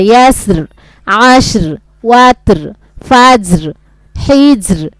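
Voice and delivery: waqf: pause on the final র; stopping on r. Shown as a demonstration. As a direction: end ইয়াসর with a clear stopped r. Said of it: "রটা কিন্তু উচ্চারণ হবে ওয়াকফ করে".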